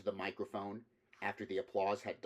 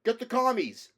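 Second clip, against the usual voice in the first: a high, loud yell from the crowd; enthusiastic yell; 14 semitones higher, 11 dB louder than usual. Acted. Second audience member cheering on the lecture, high loud yell. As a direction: cheer him on with a piercing holler. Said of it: "equally enthusiastic".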